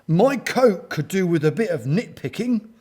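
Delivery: pleased story-character voice; beaming. A narrator's reading. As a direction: beam it out brightly. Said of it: "Gordon beamed".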